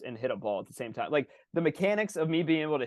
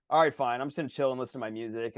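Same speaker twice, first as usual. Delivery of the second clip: resigned backseat driver; 2 semitones lower than usual. Acted. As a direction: toss it off, backing down. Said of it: "backseat driver is just like".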